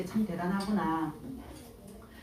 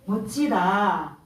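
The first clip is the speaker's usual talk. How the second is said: awed admiration; much slower than usual. Retold or imitated. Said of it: "세상 것에 감동할 수가 있습니다".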